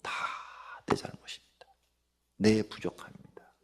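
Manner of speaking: hushed admission of fault; heartfelt confession. Shown as a demonstration. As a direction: confess quietly, as if truly realizing it. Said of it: "이렇게 깨달아 이게 진짜예요".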